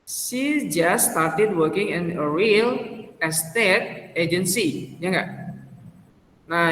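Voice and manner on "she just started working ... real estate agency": slow, careful English reading for the class; teacher reading the exam sentence slowly to students; slow read-aloud. Shown as a demonstration. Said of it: "yang narratornya bilang apa?".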